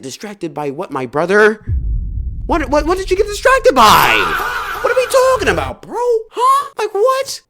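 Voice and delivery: high, loud incredulous yelling with laughter; incredulous shout cracking into laughs; outraged laughing shout. Retold or imitated. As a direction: yell in disbelief, half laughing.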